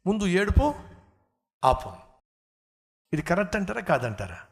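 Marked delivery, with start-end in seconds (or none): 0.1-1.9 firm parent. Retold or imitated. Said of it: "ఖచ్చితంగా చెప్పేసేవాళ్ళం".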